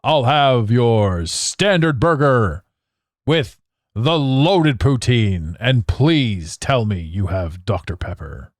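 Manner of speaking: slow, drawn-out imitation of a booming order; hammed-up big voice, stretched out slowly; mock bellow. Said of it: "this man just bellowed".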